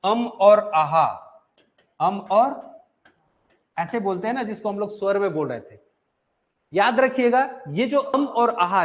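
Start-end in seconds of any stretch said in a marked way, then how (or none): 0.0-2.8 अम hummed, आहा with a breathy h, slowly; drawn-out अम and आहा for the class; anusvara and visarga demo. Shown as a demonstration. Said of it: "जो आप बोल रहे थे ना लास्ट में".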